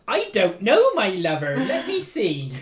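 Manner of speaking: sing-song put-on Welsh; Welsh accent. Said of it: "Is my lover even a Welsh phrase?".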